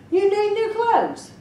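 high, brisk witch voice. A narrator's reading. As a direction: announce it like a fairy godmother. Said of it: "the witch exclaimed".

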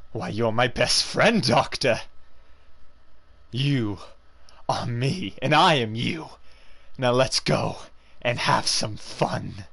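slow, taunting voice of a sinister alter ego; sly Mister Hyde. Acted. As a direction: slowly tempt the doctor into mischief. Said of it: "Doctor Jekyll and Mister Hyde".

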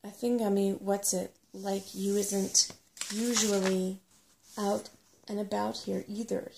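loud, deliberate stress on "usually"; pointed retort. A narrator's reading. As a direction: throw it back slowly, leaning on "usually". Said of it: "he pointed out".

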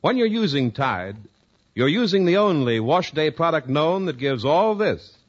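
polished announcer selling soap; measured sales pitch, each phrase neatly set apart; radio ad read. Acted. Announcer sells Tide to housewives, measured commercial pitch.

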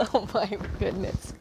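words breaking through laughter; real helpless giggles; laughing. Real, not acted. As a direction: gasp it out while laughing. Recovering from a laughing fit.

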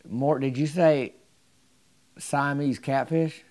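slow, drawn-out doubting question; disbelieving question. Retold or imitated. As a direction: ask it slowly, not believing a word. Doubting the storyteller's claim.

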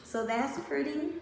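talking around a lollipop; words round a lollipop in the mouth; sucking a lollipop. Real, not acted. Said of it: "I'm sucking on a lollipop".

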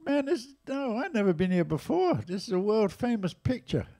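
retold excited denial; eager protest. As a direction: protest with wide-eyed excitement. Protesting he has never been there.

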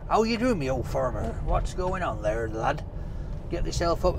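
lightly put-on Cornish farmer's accent. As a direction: greet a farmer in mock Cornish. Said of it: "that kind of accent".

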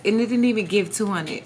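low, soft chuckling admission; rueful laugh. Real, not acted. Dancer quietly laughing at her low take. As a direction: laugh it off quietly under your breath. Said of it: "that is so freaking sad".

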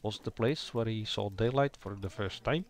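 lightly Scandinavian, lifting the pitch at "Nordland"; hint of a Scandinavian lilt; slight Scandinavian accent. Shown as a demonstration. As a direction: give it a little Scandinavian accent. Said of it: "A little bit of an accent".

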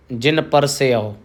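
ਪਰਸਿਓ said as par-si-o, with the ਐੜਾ sounded; not ਪਰਸਿਓ run together, each syllable clear; careful pronunciation. Shown as a demonstration. Teacher showing students ਪਰਸਿਓ, clear syllables. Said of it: "ਸਿੱਧਾ ਪਰਸਿਓ ਨਹੀਂ ਕਹਿ ਦੇਣਾ".

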